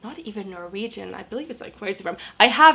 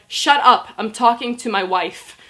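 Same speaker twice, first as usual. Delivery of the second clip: snapping shut up; 9 dB louder than usual. Retold or imitated. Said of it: "he's like".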